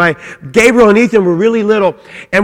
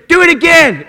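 put-on higher, eager kid begging to go again; excited child's plea; 6 semitones higher than usual. Child begging dad to throw him again, eager and high. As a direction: bounce it up like a thrilled toddler.

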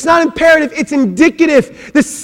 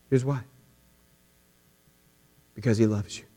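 much softer and lower, tender; soft repeated words; 12 semitones lower, 14 dB quieter, much faster than usual. Acted. Preacher telling the congregation tenderly, very soft. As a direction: lay it down gently.

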